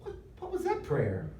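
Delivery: high-pitched incredulous protest, half laughing; comic mock dismay. Preacher jokes about taking back his prayer, in comic mock dismay. Joking plea to undo prayer.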